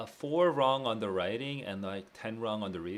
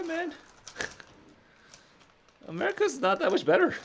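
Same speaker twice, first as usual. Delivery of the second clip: laughing; 6 dB louder than usual. Real, not acted. Laughing at America's plastic use.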